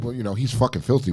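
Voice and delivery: understated, matter-of-fact dad; accepting dad. Retold or imitated. Dad excusing his son's show, mildly resigned. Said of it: "my dad's like".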